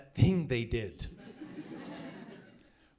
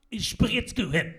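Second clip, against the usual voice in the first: yelling back; 4 semitones higher, 4 dB louder, slower than usual. Retold or imitated. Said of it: "I'm like".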